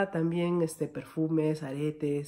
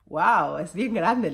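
amazed; 3 semitones higher, 5 dB louder, much slower than usual. Retold or imitated. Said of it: "le dije".

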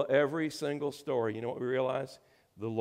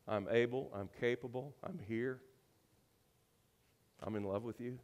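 softly voiced words of God; gentle reassurance; 6 dB quieter than usual.

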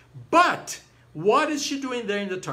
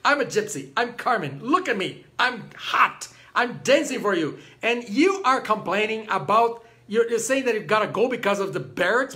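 mildly hammed-up outrage, somewhat higher and louder; indignant; 3 semitones higher, 4 dB louder than usual. Carmen scolding Don José for leaving, mock indignant. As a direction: play an affronted diva telling him off.

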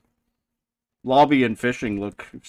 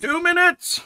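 much higher, excited squeal; 4 dB louder than usual. Real, not acted. Streamer repeats the timer, squealing.

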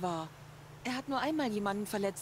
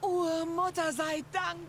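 higher, slower cry of relief; relieved surprise; 9 semitones higher, much slower than usual. Acted. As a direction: breathe out thanks at finding him alive. Sister finds brother alive.

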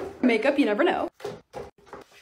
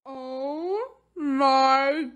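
amazed delight; 3 semitones higher, much slower than usual. Real, not acted. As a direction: stretch every word in laughing wonder. Amazed reveal of the finished lights.

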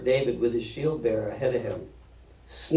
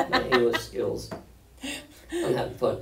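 laughing. Real, not acted. Laughs at own mistakes.

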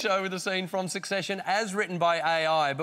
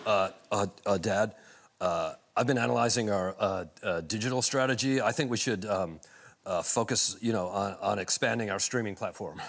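lower, halting, full of ums; hesitant nervous son; 8 semitones lower than usual. Acted. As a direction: stammer it out unsure. Acting hesitant Kendall.

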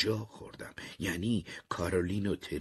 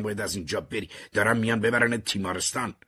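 raised, rising to a loud cry; urgent shout; 6 semitones higher, 5 dB louder, faster than usual. Acted. Marty shouting to warn Terry, urgent and raised. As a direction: warn him, getting louder. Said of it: "داد زدم".

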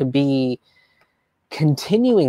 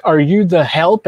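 mock condescending; 4 semitones higher, 6 dB louder than usual. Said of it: "they're just like".

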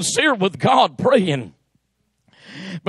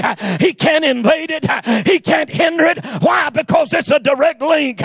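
full-force preaching. Acted. Pastor preaching the Word to the church, full force. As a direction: preach it to the congregation, building.

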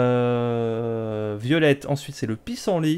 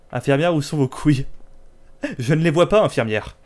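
loud, hammed-up indignation at the nurses; mock accusation; 4 dB louder than usual. Player accuses the game's nurses of lying, mock accusation. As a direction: confront them in pretend outrage.

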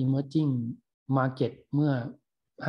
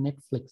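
Netflix with the NET punched and the flix light; stress on first syllable; 6 dB quieter than usual. Shown as a demonstration. Thai teacher models Netflix for learners, first syllable stressed. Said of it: "stress ที่พยางค์แรกนะ".

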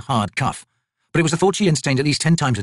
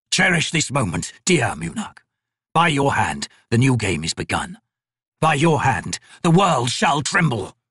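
lightly voiced ancient god, slow and measured; a crippled god; 4 semitones higher, slower than usual. Crippled god judging the painter's work, slow and cold. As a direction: speak down to the mortal like a bored deity. God's parting words.

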